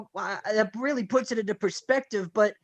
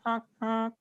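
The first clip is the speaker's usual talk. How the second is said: truck honk; 8 dB quieter than usual. Acted. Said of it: "Give her a nice little honk".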